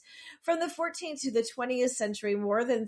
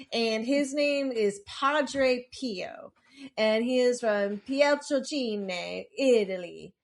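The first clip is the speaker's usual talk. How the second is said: slow, hammed-up mock Italian accent on the names; bad Italian accent; slower than usual. Podcaster introducing the saint to listeners in a self-mocking Italian accent. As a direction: drag out Padre Pio and Pietrelcina in a bad Italian accent. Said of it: "talk in a horrible Italian accent".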